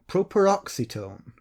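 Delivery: properoxetone repeated carefully, beat on OX; stress on third-last syllable. Shown as a demonstration. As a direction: say properoxetone slowly and clearly, stressing OX. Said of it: "say it the way I said it".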